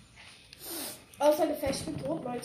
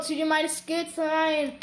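show-off drawl, slow; slow bragging; slower than usual. Real, not acted. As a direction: savour every word, cocky. Bragging to viewers.

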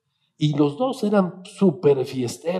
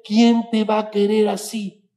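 high, loud jab of a question; scolding mother; 8 semitones higher, 5 dB louder than usual. Retold or imitated. Mother nagging her son about his weight, loud and high.

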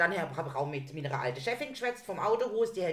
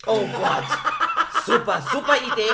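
1 sarcastic; 4 semitones higher, 9 dB louder than usual. Real, not acted. Sarcastic reply to car topic.

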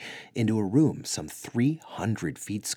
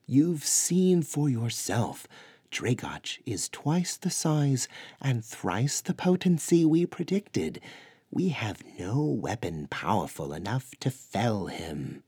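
grave giant's voice, higher; Sasquatch elder voice; 5 semitones higher than usual. A narrator's reading. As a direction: speak as a weary forest giant. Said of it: "Hirodrin, answered".

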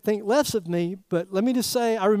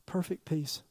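"Perfect peace" said very softly and slowly; soft stress on perfect peace; 4 semitones lower, 11 dB quieter, slower than usual. Shown as a demonstration. Preacher hushes to stress perfect peace to the congregation. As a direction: drop almost to a hush on "Perfect peace". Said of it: "What kind of peace?".

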